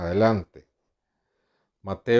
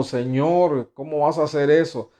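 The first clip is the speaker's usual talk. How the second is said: uncomfortable; 4 semitones higher than usual. Acted. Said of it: "Y Mefisboset incómodo".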